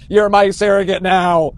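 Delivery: mock a needy guy latching on, drawn out; clingy plea.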